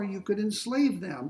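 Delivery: ordinary talk, nothing marked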